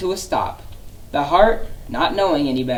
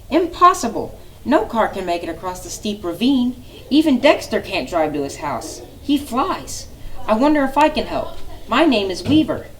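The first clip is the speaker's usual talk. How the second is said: high lightly voiced spider; 5 semitones higher than usual. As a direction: muse aloud as the spider. Weaver the spider speaks.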